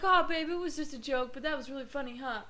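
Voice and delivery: dismissive ex; mocking boyfriend. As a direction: toss it off like a joke. Ex laughing it off.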